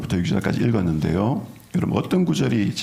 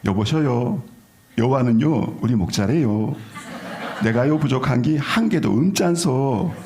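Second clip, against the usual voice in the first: Gangwon dialect; 3 semitones higher than usual. Shown as a demonstration. Pastor amusing the congregation with a Gangwon-accent Psalm. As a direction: ham up the Gangwon lilt, slowing on the last line. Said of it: "강원도 버전".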